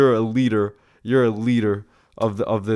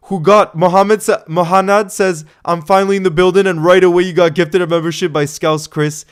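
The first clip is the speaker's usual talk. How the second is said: excited; 5 semitones higher, 7 dB louder than usual. Real, not acted. Hyped donation readout.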